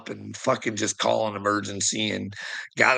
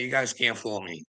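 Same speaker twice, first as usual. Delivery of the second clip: ordinary talk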